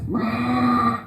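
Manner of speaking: light mock sheep bleat in her own voice; playful imitation of a sheep's wah. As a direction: bleat it like a little lamb. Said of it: "That's his noise".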